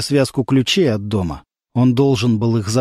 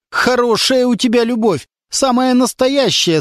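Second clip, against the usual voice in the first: mocking; 9 semitones higher than usual. A narrator's reading. Lyonya mocks the girl's declaration of love, sneering. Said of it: "с издёвкой сказал Верхотуров".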